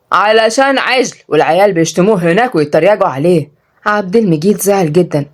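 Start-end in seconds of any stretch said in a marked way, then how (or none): 0.1-3.5 mild sneering tease; mocking. Brother making fun of Abdel Megid, mocking. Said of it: "رد عبد الجبار بتريقة".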